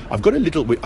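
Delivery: put-on half-hearted Geordie accent, cut off; attempted Geordie accent. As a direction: try the Geordie accent and lose it partway. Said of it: "I can't do the accent".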